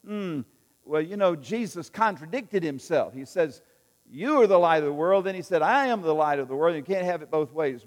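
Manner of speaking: a hint of a nitpicking debater; lightly voiced skeptic arguing with the preacher; mock arguer. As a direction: play a smug doubter poking holes. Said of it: "you might want to say".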